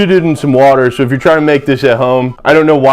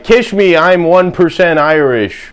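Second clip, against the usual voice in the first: mock waspy drinker; 4 semitones higher than usual. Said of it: "being like".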